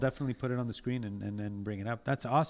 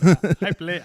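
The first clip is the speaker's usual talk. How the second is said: laughing; 3 semitones higher, 11 dB louder, slower than usual. Real, not acted. Laughing while speaking.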